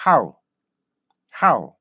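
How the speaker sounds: "how" begun abruptly as 학, then gliding off; one punchy falling syllable "how"; correct short-onset how. Shown as a demonstration. Teacher models the precise start with 학, correct "how". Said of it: "정확하게 학으로 시작하자".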